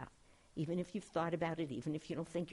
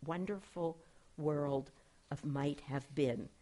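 gentle, slowing on wonderful world of might have been; said sweetly; 2 semitones lower than usual. Retold or imitated. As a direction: read it out sweetly, letting the last words linger. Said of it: "He says very sweetly".

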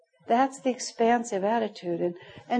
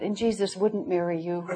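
sweetly; 3 semitones lower, 5 dB quieter than usual. Retold or imitated. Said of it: "very sweetly took her hand and said".

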